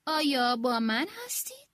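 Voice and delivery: astonished. Acted. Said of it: "با حیرت پرسید".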